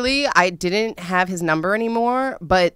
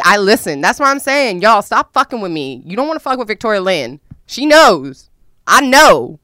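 defiant warning; 4 semitones higher, 9 dB louder than usual. Real, not acted. Warning the audience.

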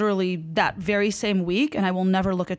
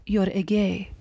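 put-on Persian-accented accusation, understated; mild Persian accent, stunned; shocked Persian mom; slower than usual. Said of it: "Shock. She's like".

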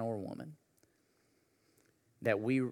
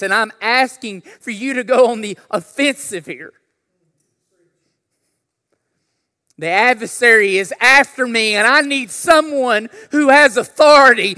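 prayer building to a high, loud cry; fervent prayer; 11 semitones higher, 19 dB louder than usual. Acted. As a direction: pray out loud, climbing to a shout. Voices a prayer at full force.

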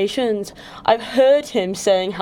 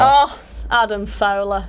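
slow playful mock Scottish accent; drawn-out Scottish imitation, a bit butchered; imitating Adam's Scottish accent; slower than usual. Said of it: "I butchered Adam's accent".

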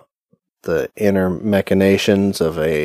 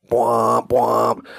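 film-score sounds. Pretend. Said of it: "film-score sounds".

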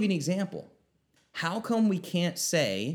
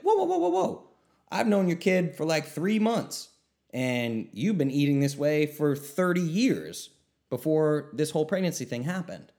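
mock startled doctor; 2 semitones higher than usual. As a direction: play the doctor caught off guard by a blaming parent, laughing. Doctor answering the blaming parent.

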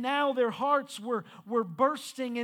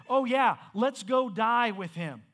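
mock-cheery sarcastic quip, a bit louder; 3 dB louder than usual. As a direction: toss it off with dry sarcasm. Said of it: "He said sarcastically".

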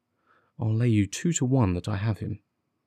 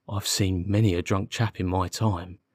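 lightly voiced constable with a grin; a touch of rough working policeman; amused constable; 2 semitones lower than usual. Constable recalling a drunk for the detective, mildly amused.

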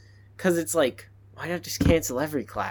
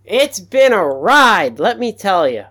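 breathless after sprinting; out of breath; 4 semitones higher, 9 dB louder than usual. Real, not acted. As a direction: talk while catching breath. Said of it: "I'm out of breath from sprinting".

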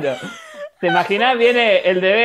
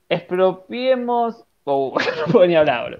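talking around a pencil in the mouth; words muffled by a pencil held in the teeth. Real, not acted. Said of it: "Sacate el lápiz de la boca".

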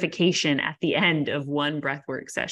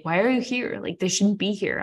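higher, half-mocking fed-up question to herself; annoyed; 4 semitones higher than usual. Scolding her own anxiety, mildly mock-annoyed. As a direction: snap at the anxiety like an unwelcome guest. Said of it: "I'm like".

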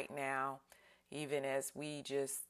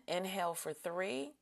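breathing cue; 4 semitones higher than usual. Shown as a demonstration. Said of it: "So let's breathe in".

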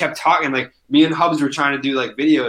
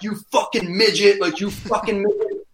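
heckler yelling; 7 semitones higher than usual. Retold or imitated. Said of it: "there was this dude screaming at me".

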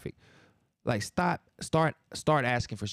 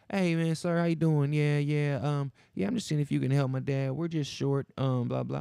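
imitating the kid; 3 semitones higher than usual. Kid at car window begging the host for money, mock sweet plea.

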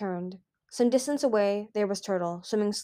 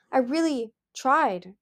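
put-on pleading child; 5 semitones higher, slower than usual. Turtle pleading with father.

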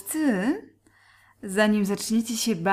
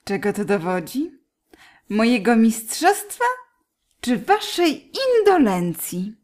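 teasing; 3 dB louder than usual. Acted. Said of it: "igrając z ogniem".

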